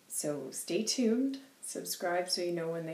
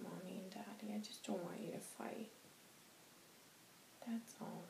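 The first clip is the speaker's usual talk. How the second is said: a small hushed wish, barely voiced; sad whispered plea; 13 dB quieter than usual. Child whispering to her parents, sadly.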